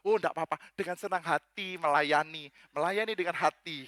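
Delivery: measured mock-pious reassurance; polite front. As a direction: pretend you are delighted to serve. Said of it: "Tapi sopan santun standar hamba Tuhan".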